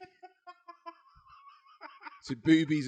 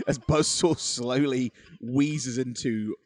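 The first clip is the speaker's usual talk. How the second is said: laughing; 2 semitones higher, 5 dB louder, slower than usual. Real, not acted. Laughing, slowing down.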